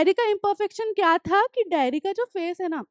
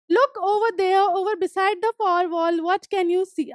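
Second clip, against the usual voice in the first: reading the story text slowly, word by word; slow reading aloud; 3 semitones higher, much slower than usual. Acted. Teacher reading the story aloud to students, slow and clear. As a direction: read each English line slowly and clearly for the class.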